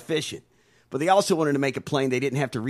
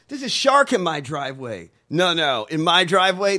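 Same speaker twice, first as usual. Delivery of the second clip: louder, rising indignant rant; lunatic rant; 3 semitones higher, 6 dB louder than usual. Real, not acted. Ranting to the co-host about driveway sharks, loud lunatic rant. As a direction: get worked up like a raving neighbour. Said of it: "I sound like a lunatic today".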